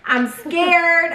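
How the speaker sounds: half-laughing, begging off the book; giggly mock fright; laughing scared. Laughing fear about the book.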